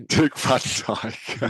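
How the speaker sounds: slow, hammed-up bad Cockney "Dick Van Dyke". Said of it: "The worst Cockney accent in the world".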